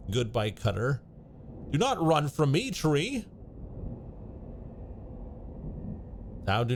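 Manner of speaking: lightly acted storybook duel; olde English confrontation. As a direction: accuse and threaten in the tree voice. Woodcutter and tree argue.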